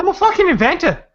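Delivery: mock Texas redneck accent. Mocking a movie character with a put-on Texas accent. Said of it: "that's a great Texas accent".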